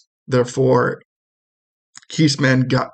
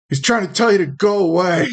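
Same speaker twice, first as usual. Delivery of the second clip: put-on higher, teasing kid voice; mocking little brother; 6 semitones higher than usual. Game master voicing the brother teasing the shopkeeper, higher and smug. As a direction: spell out the hint to him like a smug sibling.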